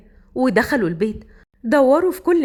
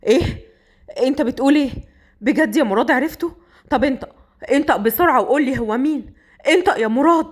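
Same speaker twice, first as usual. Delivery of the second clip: urgent demanding. Acted. Boss pressing his dying man for a name, urgent. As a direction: push hard for the answer.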